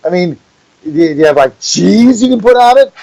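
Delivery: disbelief at the drive-thru; mild mock disbelief; incredulous. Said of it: "And I'm like".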